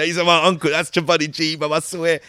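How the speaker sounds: put-on loud, insistent Hounslow Asian accent. Fan claiming his uncle is the character, loud Hounslow accent. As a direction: swear to it like an excited Hounslow lad. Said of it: "they'll say".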